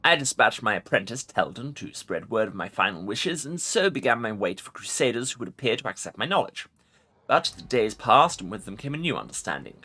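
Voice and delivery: commanding undead lich voice; ancient rasping undead king. Acted. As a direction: speak as a proud ancient lich. Lich voice continues.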